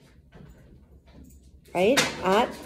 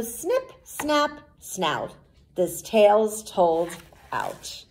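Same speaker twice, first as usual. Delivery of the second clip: gentle storyteller's sign-off; storybook closing rhyme; slower than usual. A narrator's reading. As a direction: wind the tale down like a rhyme.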